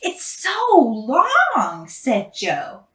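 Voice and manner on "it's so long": mocking. A narrator's reading. Classmate mocking her name.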